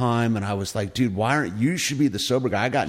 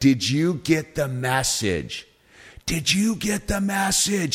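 high-pitched screaming, repeated; 6 semitones higher than usual. Retelling how their sponsor screamed over the phone, retelling a scream. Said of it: "my sponsor screams to the phone".

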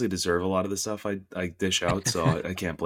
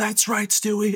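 put-on scream, higher; 14 semitones higher, 4 dB louder than usual. Retelling a scream at someone just sniped: imitating his own screaming. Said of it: "just screaming at him".

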